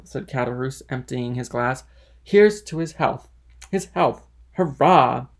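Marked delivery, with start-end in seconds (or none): 2.2-5.3 loud, higher cheering toast; hearty toast. Acted. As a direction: cheer as you drink to a friend. Drunk Caderousse drinks a toast.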